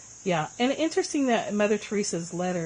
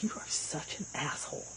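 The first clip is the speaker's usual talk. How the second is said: hushed inner voice; 3 semitones lower, 9 dB quieter than usual. Retold or imitated. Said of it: "the track in your head would be like".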